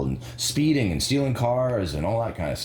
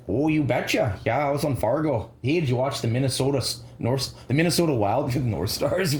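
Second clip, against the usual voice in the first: put-on light Minnesotan accent, cheerful; a hint of Minnesota folksiness; 4 semitones higher than usual. Mock Minnesotan chat about hockey, light Minnesotan accent. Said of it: "talk like Minnesotans".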